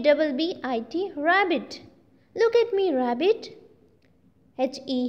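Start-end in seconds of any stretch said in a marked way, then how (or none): 2.3-2.9 shouting. A narrator's reading. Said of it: "He shouts".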